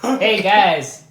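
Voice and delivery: a lighter take on the Southern line; half-hearted Kentucky drawl; quoting the movie line again; mild Southern accent. Retold or imitated. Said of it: "and he goes".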